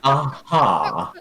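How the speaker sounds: drawn-out, scoffing "Uh-huh"; understated dismissive response. Acted. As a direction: let a mild scoff colour it. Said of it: "Just scoffs".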